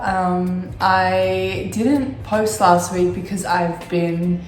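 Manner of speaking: croaky from a cold; sick, hoarse and croaky. Real, not acted. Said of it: "as you can probably tell by the sound of my voice".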